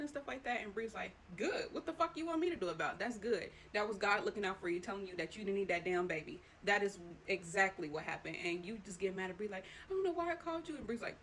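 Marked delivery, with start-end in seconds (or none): 1.4-6.4 louder, pitched-up mock friend; imitating Bree's callous reply. Bree's harsh reply retold. 9.9-10.8 higher, louder exasperated line; mock frustrated snap. Snapping at Bree, retold.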